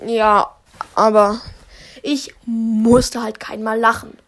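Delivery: loud insistent protest; emphatic. Real, not acted. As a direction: insist it loudly. Insisting he never laughed.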